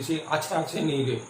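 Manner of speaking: playful. Shown as a demonstration. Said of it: "একটু মজা করে যদি বলি".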